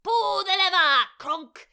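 Yzma voice. Acted.

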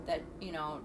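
usual speaking voice

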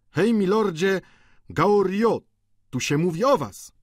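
high, loud hail across the table; calling out. A narrator's reading. Calling old man across table.

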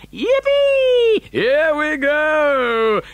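very high whoop, then drawn-out words; gleeful shout. A narrator's reading. Grandpa Joe as the lift drops, whooping with glee. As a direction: whoop and stretch it out like a ride cheer. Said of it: "Grandpa Joe shouted".

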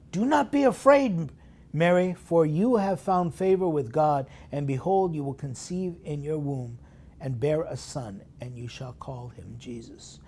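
a ringing angel telling Mary not to fear; angel's reassurance. Retold or imitated. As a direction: proclaim it boldly. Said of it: "And the angel said to her".

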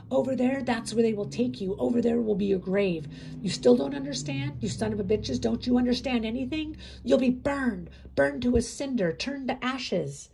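loud, high furious shouting, slowing at the end; fury. A narrator's reading. Inmate telling prisoners they will burn, furious shouting. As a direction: hammer each word of their fate. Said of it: "His anger changed into fury".

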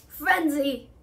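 loud, angry call of a name; furious centaur calling out; thundering call. Acted. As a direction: bark his name in anger. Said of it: "Bane thundered".

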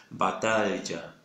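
Batalla said slowly, the ll clearly pronounced; careful batalla. Shown as a demonstration. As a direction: Batalla with a held, distinct ll. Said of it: "que no es la correcta". (Batalla lenta, con la ll marcada)

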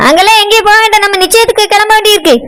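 dismissive wife. Acted. Wife figure refusing to go.

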